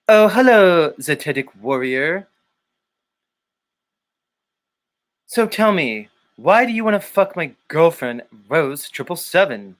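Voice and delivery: mock stiff confrontation; Jason Lindgren impression. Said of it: "Maybe I could be Jason?".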